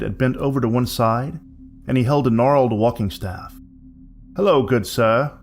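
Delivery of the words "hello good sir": a touch of a deep, gruff, tired wanderer; lightly voiced exhausted old traveller; gruff weary vagabond. Vagabond greeting Willie at the door, gruff and tired. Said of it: "in his deep voice that sounded both gruff and exhausting".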